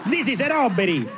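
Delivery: hint of a cartoonish Italian mobster; Super Mario robber. Mobster robbing a bank, lightly sounding like Super Mario. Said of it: "if you sound like Super Mario".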